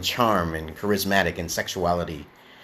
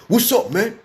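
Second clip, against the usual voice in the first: much higher, louder African-American street greeting; mocking African-American accent; 12 semitones higher, 5 dB louder than usual. Showing an accent that fails to relay your message, mocking African-American accent. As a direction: put on an exaggerated African-American accent with attitude. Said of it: "when you have a certain type of ad-, accent".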